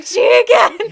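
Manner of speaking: high, loud fangirl squeal of a name; excited squeal. Retold or imitated. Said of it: "I was just like".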